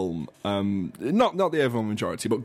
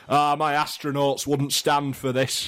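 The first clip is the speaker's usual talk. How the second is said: grumpy northern; 3 semitones higher, slower than usual. Retold or imitated. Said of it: "sound grumpy and northern".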